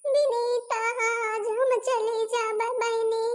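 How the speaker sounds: keen for the departing friend; tearful farewell wail. Acted. Friend weeping as the bride leaves, high tearful wail.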